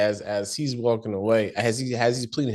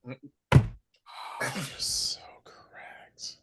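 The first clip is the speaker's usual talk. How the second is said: breathless, whispered agreement through laughter; wheezed out, long and drawn-out; helpless laughter; 4 semitones higher, 4 dB quieter, much slower than usual. Real, not acted. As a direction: barely get it out, voiceless and very slow. Cracked up by co-host's joke.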